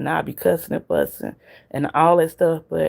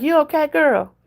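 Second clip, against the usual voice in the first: concerned question; 11 semitones higher than usual. Retold or imitated. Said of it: "I'm like".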